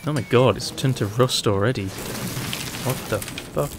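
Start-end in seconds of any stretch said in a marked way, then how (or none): 1.9-3.7 slow, whispered disbelief; baffled whisper. Real, not acted. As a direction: breathe it out in disbelief. Baffled whisper at rusted item.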